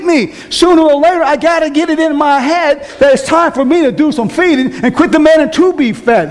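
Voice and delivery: high, ringing preacher's exhortation; fiery preaching. Acted. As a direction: preach it up high to lift the church.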